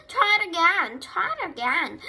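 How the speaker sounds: high, loud urging cry; calling out encouragement. A narrator's reading. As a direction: cheer them on loudly. Farm animals calling out encouragement.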